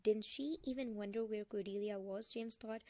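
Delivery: measured novel reading; story narration. A narrator's reading. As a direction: read the character's thoughts from the page. Reads the novel aloud.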